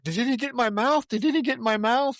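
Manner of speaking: high-pitched imitation of a panicked man; comic freak-out in a high voice; mock panic. Retelling a man sprayed with blood.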